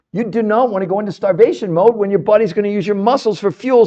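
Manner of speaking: usual speaking voice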